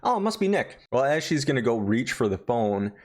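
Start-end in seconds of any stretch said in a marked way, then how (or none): 0.0-0.8 high, startled hammed-up rant; a touch of shrill outrage; mock startled. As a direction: jump at the ringing phone. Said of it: "She's like".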